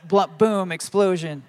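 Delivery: loud, playful explosion noise; excited emoji read-out. Retold or imitated. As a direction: punch it out like fireworks. Voicing celebratory emojis aloud.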